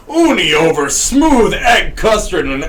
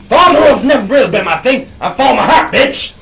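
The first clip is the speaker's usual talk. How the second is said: Colonel Sanders voice; 4 semitones higher, 4 dB louder, faster than usual. Acted. Colonel character answers.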